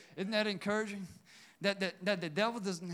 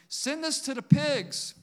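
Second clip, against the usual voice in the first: pleading demon voice; 6 semitones higher, 5 dB louder than usual. Acted. Demons begging Jesus, acted.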